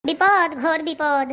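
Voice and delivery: ominous pronouncement. Acted. Fake seer foretells doom.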